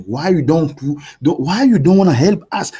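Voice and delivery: exasperated pleading, pushing harder; angry. Real, not acted. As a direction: demand it in real frustration. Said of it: "I'm getting so angry".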